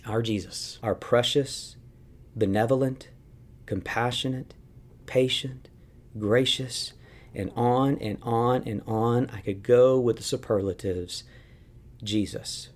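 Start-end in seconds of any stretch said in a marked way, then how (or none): none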